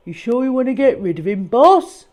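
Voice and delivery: a doubtful underling asking the boss; henchman voice. Acted. Cat disposal man asking his boss, lightly voiced. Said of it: "said a voice".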